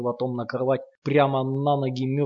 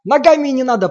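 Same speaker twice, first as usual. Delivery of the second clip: much higher, louder, broken by sobs; tearful moan; 11 semitones higher, 11 dB louder than usual. A narrator's reading. Sasha pleading not to be kicked, tearful moan. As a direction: plead through tears. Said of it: "прерываясь от слёз, стонет Саша".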